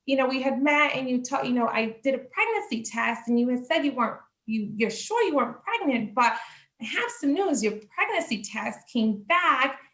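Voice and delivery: a hint of a sweet receptionist doctor; doctor's voice. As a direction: deliver the news like a sugary doctor. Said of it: "she's like".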